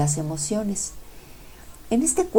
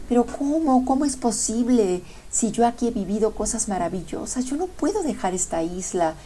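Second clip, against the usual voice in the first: higher, anxious denial, voice climbing; love pleading in disbelief; 4 semitones higher than usual. Acted. Love refusing to leave the island, anxious and higher. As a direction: refuse to believe the island is sinking. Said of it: "y decía".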